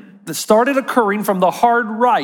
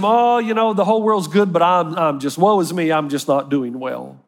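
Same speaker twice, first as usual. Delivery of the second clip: mock woe-is-me; 5 semitones lower than usual. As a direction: play the self-pitying martyr, trailing off. Voicing the masochist's lament.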